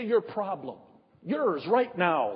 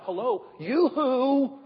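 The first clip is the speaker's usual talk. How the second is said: mock hail to God; 4 semitones higher, slower than usual. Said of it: "I would have said".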